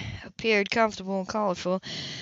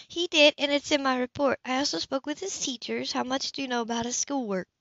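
a hint of businesslike Anna, higher; lightly voiced Anna; 4 semitones higher, 4 dB quieter than usual. Anna questions Cam about Seth's schoolwork, higher. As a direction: professional social worker tone.

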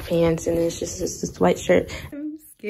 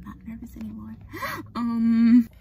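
ordinary talk

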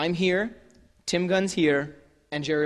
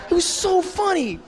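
much higher and slow, laughing through it; gushing through laughter; 13 semitones higher, 4 dB louder than usual. Retold or imitated. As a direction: melt into giggles mid-praise. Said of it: "Jerry just starts gushing".

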